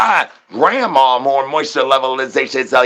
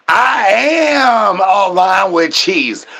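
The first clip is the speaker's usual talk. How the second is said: higher, slow, half-crying shout; mock shouted declaration; 6 semitones higher, much slower than usual. Streamer declaring loyalty to Cheese, hammed-up crying shout. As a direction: wail it out like a hammed-up proclamation.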